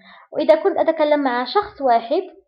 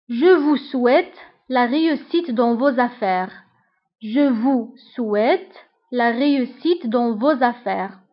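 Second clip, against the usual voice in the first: slow dictation; slower than usual. Shown as a demonstration. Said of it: "slow model sentence read twice".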